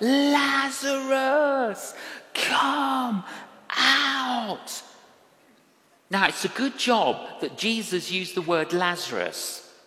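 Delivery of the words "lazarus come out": put-on, very high, loud full shout, held out long. Showing how the call to Lazarus was made: loud shout. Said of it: "No, a loud shout".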